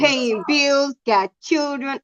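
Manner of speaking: put-on Southern twang; Southern accent. Woman listing a grown man's duties, put-on Southern accent. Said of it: "My southern accent is pretty good".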